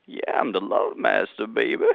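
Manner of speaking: lightly voiced lounge lover, a bit hoarse; deep love master voice. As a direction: push the voice down and croon it at her. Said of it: "So go ahead".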